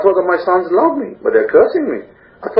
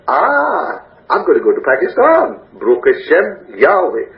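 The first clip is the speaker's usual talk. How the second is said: joyful outburst. Retold or imitated. Believer celebrates the trip to Pakistan, joyful cry. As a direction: burst out with thanks at the good news. Sudden joy at new opportunity.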